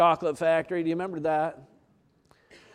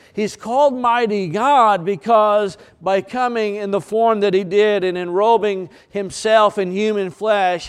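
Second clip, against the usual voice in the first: rising sermon cadence, louder; preaching; 2 semitones higher, 3 dB louder than usual. Acted. Pastor preaching to congregation, rising force.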